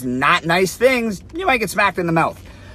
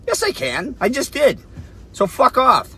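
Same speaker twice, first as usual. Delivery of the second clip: defiant snap; 7 semitones higher than usual. Retold or imitated. Telling the man off.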